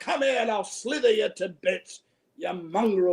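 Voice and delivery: lightly voiced sailor threat; British sailor talk. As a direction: imitate an old sailor threatening someone. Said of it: "they would talk like".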